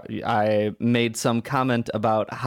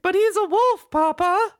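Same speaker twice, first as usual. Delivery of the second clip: put-on high, louder pleading girl; protesting daughter; 4 dB louder than usual. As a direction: cry out like a horrified daughter. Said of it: "I'm like".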